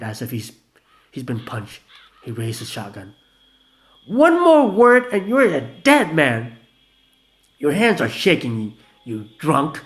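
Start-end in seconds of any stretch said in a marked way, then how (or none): 4.1-6.6 slow, high, loud menacing threat; deadly threat. Acted. Vanilla threatening Gina with a shotgun, loud slow menace. 7.6-9.8 loud taunting yell; frenzied yell. Acted. Gina taunting the armed Vanilla, frenzied yell. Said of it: "Gina yelled in some kind of frenzy".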